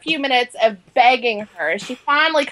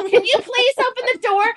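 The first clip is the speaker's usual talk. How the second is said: retold yell; 10 semitones higher than usual. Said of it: "So I knock and yell".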